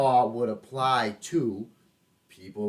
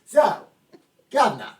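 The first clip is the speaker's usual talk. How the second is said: loud, higher mock host voice; 5 semitones higher, 8 dB louder than usual. Host prompting Curtis to say why he's mad, loud and high. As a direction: play a talk show host egging him on.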